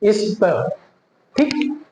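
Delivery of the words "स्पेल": इस drawn out into "is-peo", L hidden; slow "is-peo" for spell, tongue never landing on L; dark L demo. Shown as a demonstration. Teacher models spell for learners, dark L demo. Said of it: "वही technique पुराना वाला".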